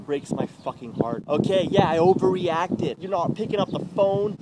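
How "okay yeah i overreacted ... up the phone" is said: loud, high, heated retort; angry accusation. Acted. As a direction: argue back at full volume. Accusing the ex directly.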